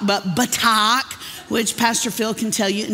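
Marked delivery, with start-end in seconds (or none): 0.4-1.1 "batak" said pə-TAHK with a rising end; Hebrew word. Shown as a demonstration. Preacher repeating "batak" for the congregation. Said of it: "not buttock".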